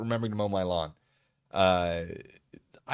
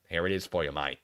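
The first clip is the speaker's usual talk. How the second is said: a lightly done, bad Australian accent; terrible Australian accent; 6 semitones lower, 4 dB quieter than usual. Streamer greets the viewer Aussie Manda in a bad Australian accent. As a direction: toss off a half-hearted Australian accent. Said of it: "my terrible Australian accent".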